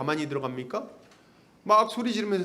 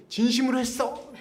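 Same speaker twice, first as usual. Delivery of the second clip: mock shaman rebuke; 7 semitones higher than usual. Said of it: "그럼".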